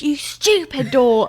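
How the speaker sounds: high, drawn-out mock yell; retold angry scream. Retelling screaming at a door as a kid, mock angry yell. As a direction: stretch it out in childish outrage. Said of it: "I screamed".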